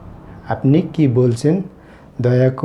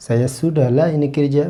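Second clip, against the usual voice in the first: slow demo; much slower than usual. Shown as a demonstration. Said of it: "teacher demonstrating Malay phrase".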